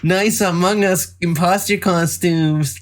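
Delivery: slow, high eBay Karen pitch; a lightly voiced pushy seller. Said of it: "Karens on eBay that are like".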